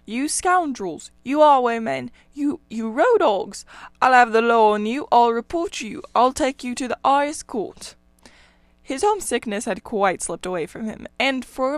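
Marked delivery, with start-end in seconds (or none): 0.0-8.0 loud, raging tirade with fists shaking; a spluttering rat yelling threats of the law; furious shouting. A narrator's reading. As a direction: bellow every insult at the road hogs. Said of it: "he shouted".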